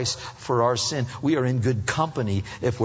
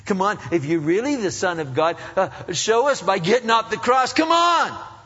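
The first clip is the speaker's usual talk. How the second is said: retold jeering; 9 semitones higher, 6 dB louder than usual. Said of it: "They did it, Jesus".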